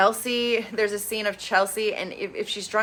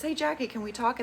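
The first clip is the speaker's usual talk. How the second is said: soft, slightly raised calm voice; imitated calm; 5 semitones higher, 4 dB quieter than usual. Monica asking Jackie to talk, calmly. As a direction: ask it gently, as a retold calm request. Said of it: "she very calmly says".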